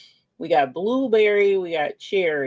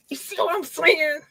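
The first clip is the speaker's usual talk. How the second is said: sing-song higher question; teasing high ask; higher playful ask; 9 semitones higher than usual. Pretend. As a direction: pitch it up and tease.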